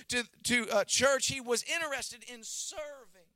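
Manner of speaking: high, forceful sermon delivery; impassioned preaching. Real, not acted. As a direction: drive each phrase home to the congregation. Preacher builds to a forceful point.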